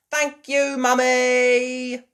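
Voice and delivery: put-on high, loud thankful girl; sweet thanks; grateful Peppa. A narrator's reading.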